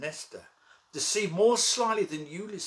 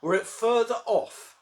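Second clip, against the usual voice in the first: raised, ringing defiance. Acted. Boasts he will seize the crown.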